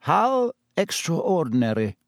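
mild, lifted amused wonder; note of amusement. A narrator's reading. Headmaster feigns wonder at the empty paddock, amused. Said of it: "There was a note of amusement".

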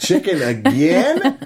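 "Chicken again?" drawn out slowly, laughing; slow weary complaint. Pretend. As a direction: drag out "Chicken again?" in disbelief. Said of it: "I want a caption from each of you".

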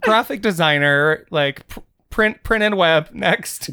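flat, bored job title. Shown as a demonstration. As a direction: say it like you hate your job. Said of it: "if you say it in a really boring voice".

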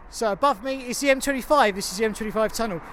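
echoing under a road tunnel; big hall echo. Real, not acted. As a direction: speak with tunnel reverb. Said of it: "you can hear the reverb".

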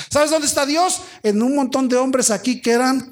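high, rousing preacher's question; fervent sermon delivery; impassioned preaching. Real, not acted. Preaches with raised voice.

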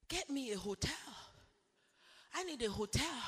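hushed retelling. Retold or imitated. Retold plea, much softer.

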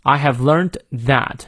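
slow line with "that" stressed and held. Shown as a demonstration. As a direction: lean on "that" at the end. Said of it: "这里that要重读一下". (慢读，重读"that")

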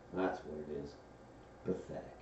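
low, soft and dejected; gloomy Eeyore. A narrator's reading. Old donkey judges his own reflection, gloomily. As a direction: sink into quiet gloom. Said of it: "said Eeyore gloomily".

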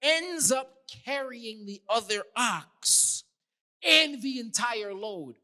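forceful, measured sermon delivery; preaching. Real, not acted. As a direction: preach it slowly and firmly to the congregation.

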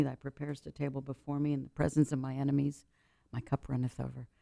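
recited prayer, measured and reverent; psalm recited in prayer. Retold or imitated. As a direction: pray the twenty-third Psalm. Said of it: "I start praying the twenty-third Psalm".

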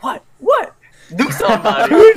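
high laughing dare, goading the dad; taunting. Retold or imitated. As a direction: egg him on, laughing high. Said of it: "And then I'm like".

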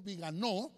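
Viganó with the last syllable stressed; stress on final O. Shown as a demonstration. Preacher reading a headline's name to his congregation, Viganó stressed on the O. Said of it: "lleva acento en la O".

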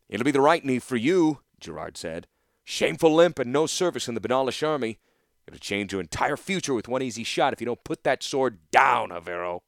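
cold threat with the bow drawn; stern master archer. Acted. Instructor Gerard ordering Torsten back, stern and loud.

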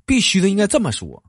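必须 stretched and punched, loud and high; Northeastern drawl on bixu. Shown as a demonstration. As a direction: belt 必须 the Dongbei way.

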